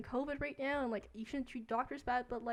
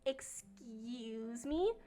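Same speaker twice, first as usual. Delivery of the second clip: mock Karen voice; 5 dB louder, much slower than usual. Karen voiced in retold story.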